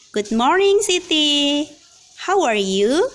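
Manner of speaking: lightly voiced mother. Mother greets daughter in dialogue.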